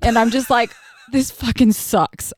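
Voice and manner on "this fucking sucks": slow, drawn-out mild fury; fed up, leaning on each word; retold anger. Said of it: "I'm so mad right now".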